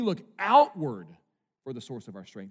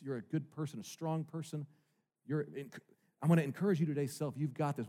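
mock self-help voice; 3 semitones lower, 5 dB quieter than usual. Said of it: "essentially saying this".

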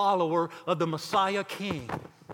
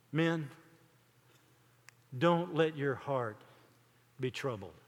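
comforting; 4 semitones lower, 5 dB quieter than usual. Retold or imitated. Jesus to his troubled disciples in the upper room, comforting. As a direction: settle them down quietly, with long pauses. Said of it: "this was a comforting moment".

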